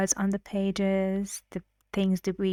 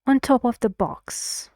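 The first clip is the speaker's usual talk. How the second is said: "On top of the box" falling on "box"; falling tune; 3 semitones higher than usual. Shown as a demonstration.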